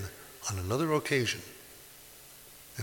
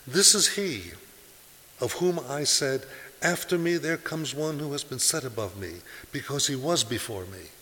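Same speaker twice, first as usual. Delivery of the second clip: louder, higher announcing voice; proclaiming; 4 semitones higher, 4 dB louder than usual. Acted. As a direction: announce it to the crowd. Quoting John to the people.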